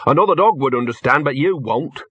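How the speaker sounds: put-upon dog voice; grumbling talking dog. Acted. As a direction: explain grudgingly to slow-witted humans.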